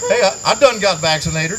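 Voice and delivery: lightly imitated country dumb guy; a touch of dumb-guy twang. Comedian quoting his country friend onstage, lightly voiced dumb guy. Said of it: "in my dumb guy voice".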